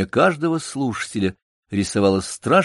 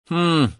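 подражающее хмыканье; 7 semitones higher than usual. Acted. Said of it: "повторил Бутон".

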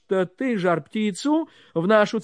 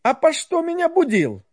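grumpy Ivan; 8 semitones higher, 3 dB louder, faster than usual. Acted. Ivan woken, grumbling.

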